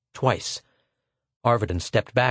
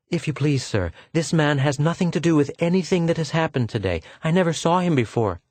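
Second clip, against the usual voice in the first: higher, anxious plea; pleading woman; 6 semitones higher than usual. Acted. Pola pleading with the lieutenant, anxious. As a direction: beg him to stop.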